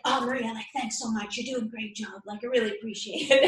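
sudden sugary gratitude after the rage; sweet Tweety Bird turn. Retold or imitated. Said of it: "when Tweety Bird turns into".

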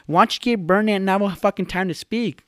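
high-pitched mock complainer; complaining commenter. Podcaster voicing YouTube comments about his talking, complaining. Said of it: "YouTube comments".

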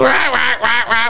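mimicking a squawking duck; imitated duck quacks. Storyteller mimics what came down the road, squawking quacks. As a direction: quack repeatedly like an approaching duck. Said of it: "all you hear coming down the road".

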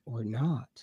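puzzled echo. Retold or imitated. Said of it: "I'm like".

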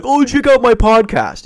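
put-on loud, high street accent. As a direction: hawk it in an exaggerated street accent. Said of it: "You can't be doing that accent".

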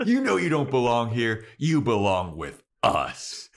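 loud retold scolding, slowing at the end; a loud, lecturing put-down. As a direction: tear into him like a stern mentor. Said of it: "the scolding of a lifetime".

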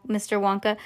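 usual speaking voice

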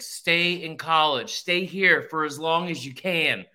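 drawn-out plea building to a loud, high cry; Billy Madison. Retold or imitated. Movie quote urging someone to stay in college, mock-desperate plea. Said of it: "it's like the Billy Madison thing".

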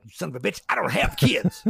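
indignant outburst, played for laughs; mock outrage. Man mistaken for a dad protests, in mock outrage.

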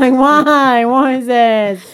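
high, fast outraged retelling; shocked disbelief. Retold or imitated. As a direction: act out walking in stunned. Retold shock in store.

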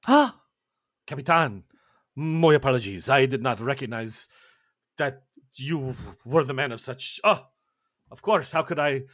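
put-on lightly accented, flustered apology; apologetic chef. Chef apologizes to Captain Gregor, light accent. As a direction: backpedal quickly, a bit flustered.

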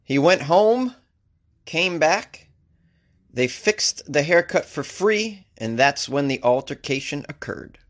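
mock Texas detective. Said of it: "Here's a quote from the detective".

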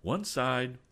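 high command to clear the way; shouted order. A narrator's reading. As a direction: order people aside. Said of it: "shouted the captain".

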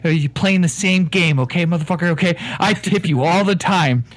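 blustering Irish con man; Irish accent. Acted. Con man insisting to the bartender, in an Irish accent. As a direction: lay on the Irish brogue, talking him down.

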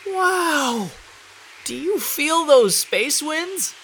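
thrilled by the wind; amazed girl voice. Acted. Blue blown by space winds.

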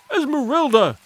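high panicked call, stopping short of a scream; comic shriek of alarm. A narrator's reading. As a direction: call her name in high-pitched panic. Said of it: "he shrieked".

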